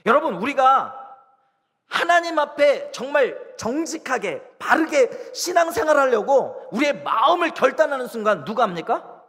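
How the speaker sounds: high, loud preaching voice; full-force preaching. Acted. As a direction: drive each point home, pitched high. (목소리를 높여 힘주어 설교하듯)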